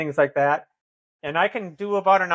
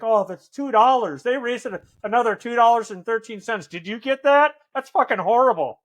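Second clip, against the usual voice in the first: higher-pitched imitation of petty indignation; mock outrage; 5 semitones higher than usual. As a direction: gripe incredulously, pitched up, imitating a complainer. Acts out outrage over a bill.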